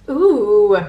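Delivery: loud, delighted ooh. Real, not acted. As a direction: react with sudden delight. Reacting to tasting the cookie.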